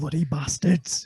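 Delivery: slow gruff Yorkshire curse; Yorkshire accent. Retold or imitated. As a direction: growl it like a Yorkshire soldier. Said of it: "Yorkshire bloke".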